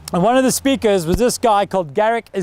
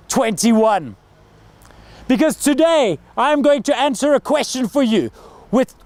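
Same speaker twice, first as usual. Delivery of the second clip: formal speech; 2 semitones higher than usual. Shown as a demonstration. A coach demonstrating the ideal TED opening, grand and formal. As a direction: welcome the crowd like a big stage keynote. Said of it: "if I was coaching that guy".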